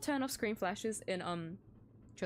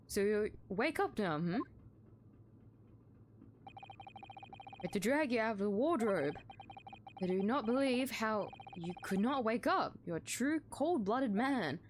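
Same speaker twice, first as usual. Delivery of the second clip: stern accuser; 3 semitones lower than usual. Acted. Officer scorning the suspect he pulled from a wardrobe, lower stern voice. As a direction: talk down to a suspect you dragged out. Voicing gruff accuser character.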